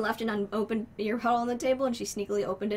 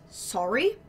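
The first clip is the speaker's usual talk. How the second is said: mocking rising Sorry? with a bit more push; mocking quote; 4 dB louder than usual. Bartender mocks the sister's one-word letter, scornful rise. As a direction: throw her Sorry? back in mock disbelief. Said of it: "And she just says".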